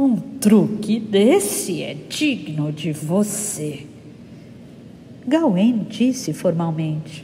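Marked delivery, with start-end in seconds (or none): 0.0-3.9 contemptuous, scornful tone. A man caught unarmed addresses the one who tricked him: contemptuous. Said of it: "ele disse com desprezo".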